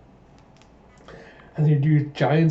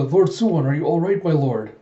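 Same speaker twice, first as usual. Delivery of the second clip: alarmed concern; 3 semitones higher, 3 dB louder than usual. Acted. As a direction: check urgently on your wounded lord. Soldiers check on wounded lord.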